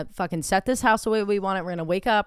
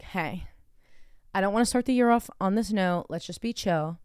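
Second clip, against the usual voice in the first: calmed down. Retold or imitated. Retelling truce with partner after bathroom, calm. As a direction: settle the voice and ease off. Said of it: "I calm myself down".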